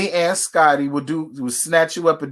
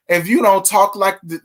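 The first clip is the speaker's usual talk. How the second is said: ordinary talk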